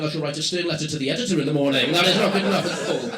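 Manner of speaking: pompous, prim letter-writer, fast; mock posh indignation; stern complainer. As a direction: sniff it like an outraged reader. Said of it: "the rest of you going".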